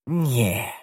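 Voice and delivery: conceited. A narrator's reading. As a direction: brush it off self-importantly. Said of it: "odrzekł zarozumiale".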